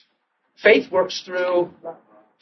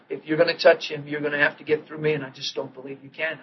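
quiet defiance; 2 semitones lower, 7 dB quieter than usual. Retold or imitated. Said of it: "I'm like".

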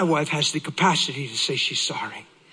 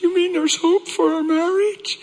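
high, loud astonished question; amazed hope; 5 dB louder than usual. Retold or imitated. Wife asking husband about their marriage, amazed. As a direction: burst out in hopeful disbelief, pitched up.

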